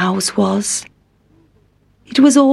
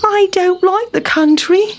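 sighing; 9 semitones higher than usual. A narrator's reading. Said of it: "sighed Town Mouse".

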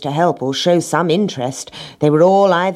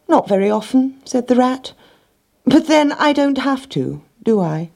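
smug rat voice; 10 semitones higher than usual. Acted. Smug rat answers the hen.

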